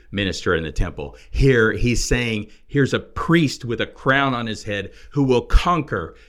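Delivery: loud, emphatic preacher delivery with weighty pauses; forceful preaching. Real, not acted. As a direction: drive each point home loudly. Preaches and expounds scripture forcefully.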